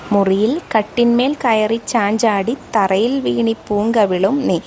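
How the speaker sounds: slow, measured verse reading with drawn-out vowels; poem recitation. Acted. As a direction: recite the verse slowly, lingering on phrase ends. Recites verse before explaining.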